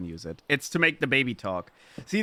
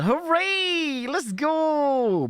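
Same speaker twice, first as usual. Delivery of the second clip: high, drawn-out celebratory whoop; excited cheer; 13 semitones higher, much slower than usual. Real, not acted. Streamer celebrating preamp in the mail, excited cheer. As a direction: cheer it high and stretch the words.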